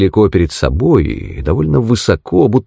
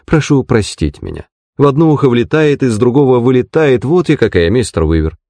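lightly voiced, higher-pitched landlady; apologetic, chatty landlady; 6 semitones higher than usual. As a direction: prattle a light self-deprecating apology. (извиняющаяся хозяйка, чуть выше голосом)

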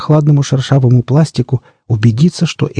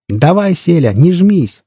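egging on; 7 semitones higher, slower than usual. A narrator's reading. Crowd eggs Selivan on.

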